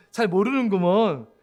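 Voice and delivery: slow Korean dialect drawl; Korean regional dialect. Retold or imitated. Preacher retells Moody's reply in Korean dialect. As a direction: draw out the dialect ending. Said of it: "사투리 안 썼을 거예요".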